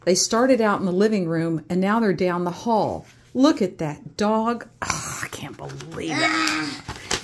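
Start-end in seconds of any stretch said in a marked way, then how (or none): 4.8-7.2 mock disbelief.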